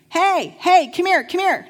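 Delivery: loud, high party yell across the street; calling out. Retold or imitated. Partying young adults shouting to a passing woman, loud high call. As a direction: call her over from the party, hammed up. Partiers yelling out at passerby.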